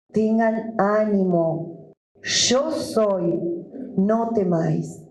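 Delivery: measured, deliberate Bible reading; scripture reading. Acted. Pastor reading the Gospel to his church, measured. Reads Bible passage aloud.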